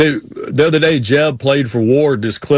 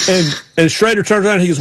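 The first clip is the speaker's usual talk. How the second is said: normal talking voice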